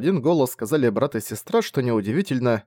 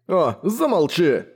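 through pressed lips; 6 semitones higher, slower than usual. A narrator's reading. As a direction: shush him without opening up. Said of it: "сжав губы".

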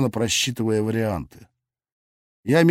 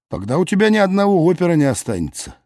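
quick, lively comeback, fast; eager retort; 5 semitones higher, faster than usual. Acted. Parrying Lilya's jab with a fast, eager retort. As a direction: fire it back with relish. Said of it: "азартно парировал я".

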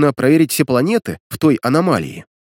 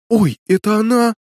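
higher startled babble; babbling girl; 9 semitones higher, 3 dB louder than usual. A narrator's reading. Lena finds the girl in the closet, startled babble. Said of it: "пролепетала Лена".

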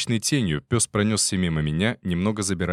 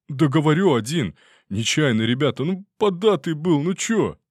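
high, whiny insistence; detainee insisting; 8 semitones higher, 4 dB louder than usual. Acted. Detainee insists to soldiers, high whiny. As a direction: whine that he was just drunk.

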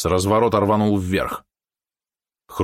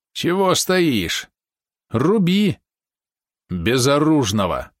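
hoarse, much higher, slow; hoarse cry; 5 semitones higher, much slower than usual. A narrator's reading. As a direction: rasp it out, desperate and high. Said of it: "прохрипел Вадим".

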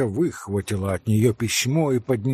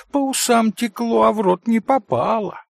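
spiteful jeer; 9 semitones higher, 4 dB louder than usual. A narrator's reading. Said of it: "со злобным смешком".

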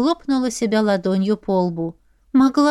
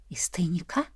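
whispered, much softer "Из тайника?" with a rising question; 4 semitones lower, 11 dB quieter than usual. Acted. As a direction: breathe "Из тайника?" in a hushed whisper, rising at the end. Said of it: "Из тайника вдовушки!".

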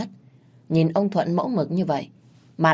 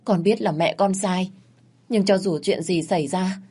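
higher, urgent begging; kneeling plea; 3 semitones higher than usual. Acted. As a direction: plead with her to go easy. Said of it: "quỳ xuống van xin".

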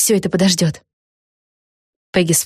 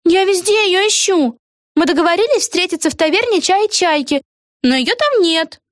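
cheery witch; 12 semitones higher than usual. A narrator's reading. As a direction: sing out hello carelessly. Eggi continues.

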